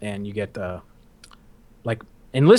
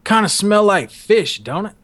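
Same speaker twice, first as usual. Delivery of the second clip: slow, leading question, pitched up then dropping; drill instructor's talk; 5 semitones higher than usual. Retold or imitated. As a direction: imitate an instructor baiting a recruit. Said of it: "that's how he, he talked".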